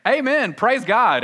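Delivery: high, loud, slow churchy exclamation; imitating people who just learned he is a pastor; mock hyper-religious. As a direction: ham up a pious believer. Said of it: "start getting them to say".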